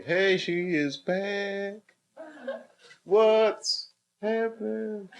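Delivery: slow, high mock British accent; hammed-up British accent, drawn out; imitating British accent. Mimicking a British woman's accent for fun. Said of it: "I wanna learn how to talk like you".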